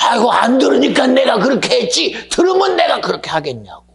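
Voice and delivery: imitating an indignant churchgoer's outburst; indignant retort. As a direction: throw the excuse back hotly. Deacon snaps back at pastor.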